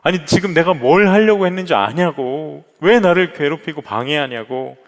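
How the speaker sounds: a hint of a furious snap at the door; retold angry outburst. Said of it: "버럭 화를 냈답니다".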